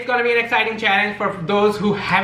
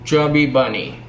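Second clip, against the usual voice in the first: mouth full; 6 semitones lower, 6 dB quieter than usual. Real, not acted. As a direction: mouth stuffed with marshmallows. Chubby bunny with marshmallows.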